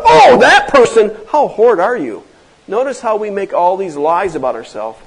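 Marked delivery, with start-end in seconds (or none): 0.0-2.2 loud, high mock disgust on oh; mock outrage. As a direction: ham up the shocked accuser. Mocking the self-righteous accuser.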